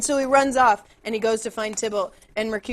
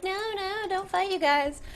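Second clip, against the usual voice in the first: pleading Romeo; 8 semitones higher, 5 dB quieter than usual. Retold or imitated. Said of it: "and he's like".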